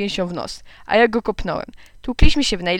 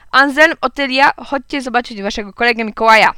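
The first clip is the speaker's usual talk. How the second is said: put-on raised, higher voice summoning children; calling out; 3 semitones higher, 6 dB louder than usual. A narrator's reading. Mother calling her children to meet a guest, calling out. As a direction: call to the children in another room. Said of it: "krzyknęła pani Patmoulier".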